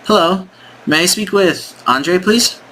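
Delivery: high, chirpy sales rep opener; bright caller. Pretend. Sales rep opening the demo cold call, high and chirpy. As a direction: sound eager on the phone.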